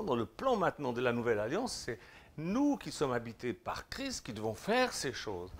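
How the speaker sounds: normal talking voice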